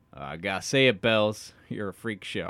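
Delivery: light Southern US twang; Southern accent. Acted. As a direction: read Jacob's line with a slight Southern accent. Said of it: "I don't know why I made him Southern".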